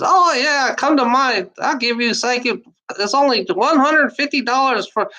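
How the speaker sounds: hammed-up Jamaican psychic selling a reading; Jamaican accent. Mock Jamaican accent, TV psychic advert pitch. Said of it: "the Jamaican girl that says".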